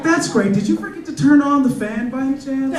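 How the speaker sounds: high, fake-bright praise with a dig; forced cheerful dad. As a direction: praise her while hinting at the smell. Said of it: "I was like".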